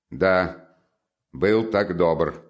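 slow, drawn-out echo; sardonic echo. Acted. Son throwing mother's praise back at her, sardonically. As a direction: stretch the words out pointedly.

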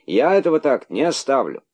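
high loud threat; outraged shouting; indignant shout. A narrator's reading. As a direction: yell the vow. Outraged character keeps shouting.

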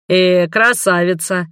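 slow teasing reproach; drawn-out scolding tease; chiding. Acted. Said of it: "пожурил меня моряк".

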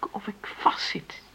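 slow, breathless whisper; trapped and hopeless, barely voiced; hushed anguish; despairing whisper. Despairing confession.

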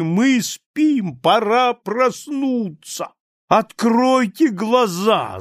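high, loud, slow rant; drunken rant. A narrator's reading. Drunk guest rants to the table, loud and high. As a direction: preach like a drunk rebel.

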